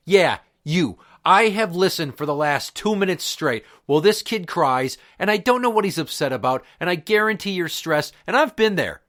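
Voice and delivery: indignant lecture to another parent; heated telling-off. Retold or imitated. Dad scolding a father for telling a crying kid to shut up, heated. Retold angry confrontation with a father.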